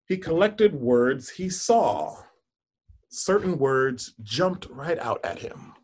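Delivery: put-on storybook narration for children; story reading. Teacher reads picture book aloud.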